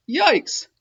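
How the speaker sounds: high startled yelp; startled cry. A narrator's reading. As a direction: jump at the swing. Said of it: "cried Joey Mackerel".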